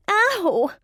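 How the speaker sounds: high, sharp little squeak. A narrator's reading. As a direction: yelp it high like a hurt creature. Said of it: "she squeaked".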